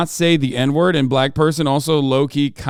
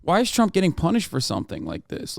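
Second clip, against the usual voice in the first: higher-pitched imitation of baffled outrage; put-on incredulous questioning; mock disbelief; 6 semitones higher than usual. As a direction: play a stunned supporter protesting, pitch jumping up. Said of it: "the same energy here where they're like".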